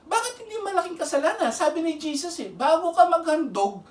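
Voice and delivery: high, urgent, pressing the point; fervent preaching. Real, not acted. Preacher pleading with the unforgiving, fervent. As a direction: drive it home with rising fervor.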